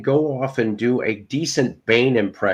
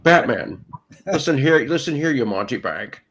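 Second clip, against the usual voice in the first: Bane impression. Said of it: "That does kinda almost sound like Sean Connery".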